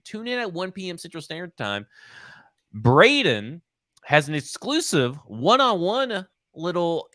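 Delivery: swooping announcer-style outro; podcast sign-off. Real, not acted. Host closing a football podcast and plugging shows, announcer-style. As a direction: plug the upcoming shows with lilting, stretched emphasis.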